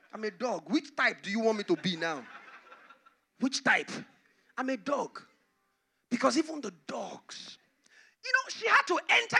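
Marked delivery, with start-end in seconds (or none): 0.1-5.2 laughing meekly through the words; humble laughing. Acted. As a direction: laugh it off with humility. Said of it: "She said".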